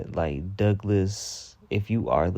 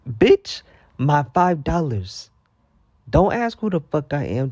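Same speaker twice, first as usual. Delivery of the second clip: much higher, louder mock yell; imagined yell; 6 semitones higher, 3 dB louder than usual. Confronting staff over her five dollars, mock yelling. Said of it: "I'm like".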